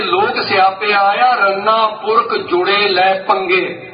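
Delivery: slow, drawn-out recitation of the line; reciting verse. Shown as a demonstration. Preacher reciting Bhai Gurdas's verse to listeners, slow intoning. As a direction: intone each word slowly and deliberately. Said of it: "Bhai Gurdas ਕਹਿੰਦੇ".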